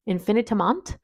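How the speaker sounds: attempted French pronunciation of the name; French accent. Shown as a demonstration. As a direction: try saying it with a French accent. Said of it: "Maybe I will try to say it in French".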